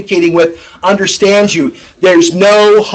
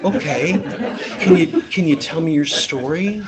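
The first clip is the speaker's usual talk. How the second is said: much softer, gentle opener; 9 dB quieter than usual. Shown as a demonstration. Rep gently greeting a timid Jane, soft. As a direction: ease in softly, almost hushed. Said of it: "No, it's".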